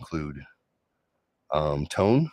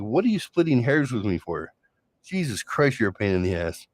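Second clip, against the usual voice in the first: higher, annoyed huff at the nitpicking; exasperated retort; 4 semitones higher than usual. Retold or imitated. Exasperated at partner splitting hairs. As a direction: snap back in disbelief. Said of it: "I was like".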